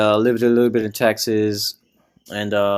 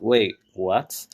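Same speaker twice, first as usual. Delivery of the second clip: baffled; 4 dB quieter than usual. Retold or imitated.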